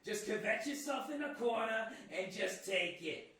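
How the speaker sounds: put-on slow Yiddish-flavoured Jewish accent; old Jewish grandmother accent, drawn out. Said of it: "I've been working on my Jewish accent".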